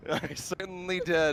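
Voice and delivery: slow words with a cracking voice. Real, not acted. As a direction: voice cracks mid-sentence. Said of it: "my voice cracked".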